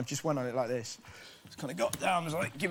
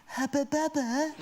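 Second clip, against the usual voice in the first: put-on much higher, slow, laughing Bristol accent; Bristolian cousin voice; 11 semitones higher, slower than usual. Cousin marvelling at the gum, high slow Bristolian accent. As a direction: stretch it out in a broad Bristol accent. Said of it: "but I can do the voice".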